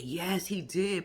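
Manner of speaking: slow, hushed, drawn-out yes; mock conspiratorial whisper; whispered agreement. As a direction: lean in and whisper it. Retold reply, whispered.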